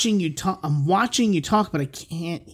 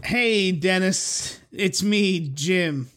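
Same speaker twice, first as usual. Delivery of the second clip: bad Jim impression; 2 semitones higher, much slower than usual. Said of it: "it's a terrible Jim impression".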